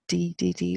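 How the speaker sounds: "D, D, D" with a hard English d, repeated. Shown as a demonstration. Teacher showing the sound to avoid, hard English D. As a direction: tap out a hard "D, D, D". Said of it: "the D is not a hard D".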